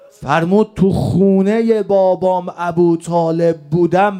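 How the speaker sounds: impassioned lament from the pulpit; mourning sermon. Real, not acted. Preacher mourning the wronged Imam to his congregation, impassioned lament.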